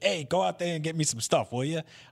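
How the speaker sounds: high, cigarette-smoky voice. Describing a side quest, quoting the character Greasy in his Danny DeVito-like voice. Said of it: "he's got this like kind of Danny DeVito voice".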